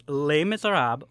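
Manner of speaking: title slips out with a French pronunciation; accidentally lapse into the French accent. Real, not acted. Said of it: "Wow, you just did it".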